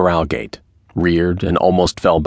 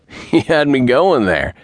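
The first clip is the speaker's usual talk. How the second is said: higher, slow, easy-going chuckle in the voice; good-natured; 8 semitones higher, slower than usual. A narrator's reading. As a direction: let him off with a friendly grin. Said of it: "he said good-naturedly".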